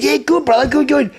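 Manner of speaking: high-pitched, hurried-sounding friendly answer; retold eager reply. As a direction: re-enact an over-keen reply. Acts out flustered reply.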